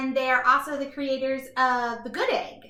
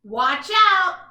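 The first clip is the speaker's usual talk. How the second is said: loud, higher call of warning; dramatic warning; 6 semitones higher, 10 dB louder than usual. A narrator's reading. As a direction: shout it like a lookout. Story narration, dramatic warning call.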